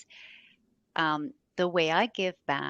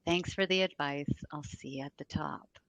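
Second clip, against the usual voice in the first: sweetly confident reply. Retold or imitated. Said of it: "I would just smile and say".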